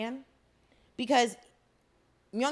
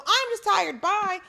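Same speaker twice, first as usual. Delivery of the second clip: mock tired brush-off; 8 semitones higher, 3 dB louder, slower than usual. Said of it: "walk out and go".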